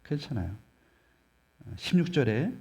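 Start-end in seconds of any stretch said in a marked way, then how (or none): 0.0-0.5 괜찮아요 said much softer, at normal pitch, falling; soft reassurance. Shown as a demonstration. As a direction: breathe 괜찮아요 gently, almost to oneself. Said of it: "여전히 부족하도 괜찮다고요". (괜찮아요를 조용히 부드럽게)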